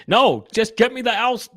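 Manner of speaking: demanding Santa. Acted. Santa replying.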